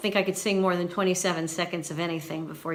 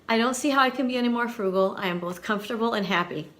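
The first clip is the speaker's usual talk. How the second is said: a brisk, delighted second reading; fast, warm repeat; quick, light reread; 3 semitones higher, faster than usual. Shown as a demonstration. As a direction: rattle it off fast, admiringly. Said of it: "listen carefully".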